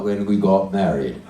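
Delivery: low, grudging husband puppet; put-on deep male character; man's dummy voice. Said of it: "What about a voice like this?".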